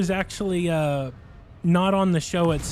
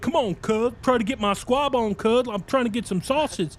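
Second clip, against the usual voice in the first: high, pleading hustler voice; a mock gangbanger begging for food; imitating a street hustler; 7 semitones higher than usual. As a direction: wheedle for the last sausage. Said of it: "he starts saying".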